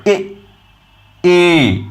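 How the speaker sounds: drawn-out vowel a sound. Shown as a demonstration. Teacher sounding a for the class, drawn out. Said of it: "notice here".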